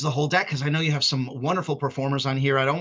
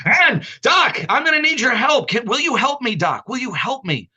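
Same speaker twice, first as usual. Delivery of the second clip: mock pleading; 5 semitones higher, 6 dB louder than usual. Pleading for help, mock desperate.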